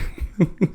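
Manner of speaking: high, breathy retold laugh; cracking up. Telling a friend how he cracked up, high breathy laugh. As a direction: burst of stifled laughter. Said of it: "I fucking cracked up".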